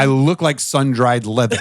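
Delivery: deadpan self-mockery; straight-faced. Real, not acted. Drinker joking about his weathered looks, deadpan. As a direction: say the joke with a straight face. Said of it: "I kept a straight face".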